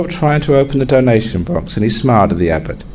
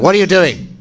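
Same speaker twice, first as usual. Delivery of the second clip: burglar voice; 8 semitones higher, faster than usual. Acted. Burglar challenges the abbot.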